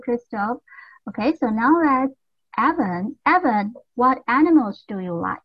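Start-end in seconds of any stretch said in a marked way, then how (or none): none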